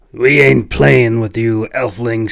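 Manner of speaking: mild mock snap at the elf; snapping hunter. Hunter on the left warns the stranger, snapping. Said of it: "snapped the hunter".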